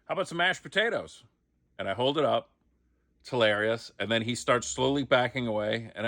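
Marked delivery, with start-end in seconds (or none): 0.0-1.2 deadpan comic delivery. Acted. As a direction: sell the line as a joke. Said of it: "And I'm like".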